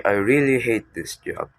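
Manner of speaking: HATE pushed out with extra emphasis; stress on HATE. Shown as a demonstration. Teacher showing how emphasis conveys strong negative emotion, stress on "hate". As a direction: lean hard on the word "hate". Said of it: "by emphasizing the word hate".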